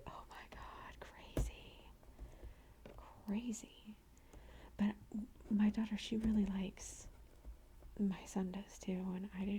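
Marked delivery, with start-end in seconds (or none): 0.1-3.9 hushed, stunned aside; retold disbelief. Radio hosts reacting to the neighbors, soft retold disbelief. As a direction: softly act out being stunned.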